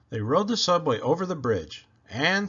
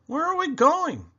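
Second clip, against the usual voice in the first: put-on eager child; 13 semitones higher, 4 dB louder than usual. A narrator's reading. Willie asking.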